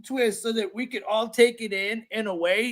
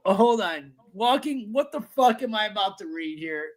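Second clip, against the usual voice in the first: stoner. Real, not acted. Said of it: "I'm really stoned right now".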